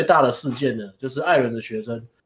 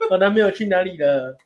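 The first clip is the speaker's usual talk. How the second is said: put-on baby voice; 3 semitones higher than usual. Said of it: "他们娃娃音".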